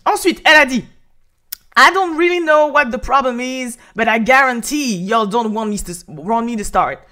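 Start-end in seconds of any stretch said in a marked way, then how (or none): 1.8-7.0 put-on a half-hearted American rap accent; quoting the lyric in a clumsy American accent; bad American accent. A French vlogger quoting a rapper's line in a bad American accent. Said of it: "quel accent de merde que je viens de faire".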